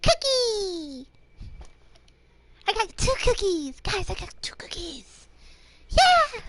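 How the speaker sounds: high, excited cutesy squeal; cuteness overload voice. Pretend. Cheering over getting two cookies, high cutesy squealing. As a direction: squeal it high like a thrilled little one. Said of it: "mixing up the cuteness overload voice".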